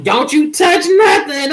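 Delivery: sharp high shout, don't touch; mother's scolding shout. Retold or imitated. Mother scolding her grown daughter, sharp shout. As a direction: bark the warning like a strict mom. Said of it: "She be like".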